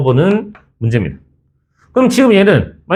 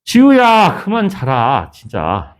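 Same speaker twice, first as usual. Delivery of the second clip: calling out reproachfully; much slower than usual. Real, not acted. Calls out to a sleeping student.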